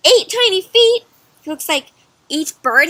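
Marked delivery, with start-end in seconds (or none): 0.1-1.0 shocked question. Acted. Reader gasps to the children about the feet, astonished. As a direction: gasp then a high astonished eight tiny feet.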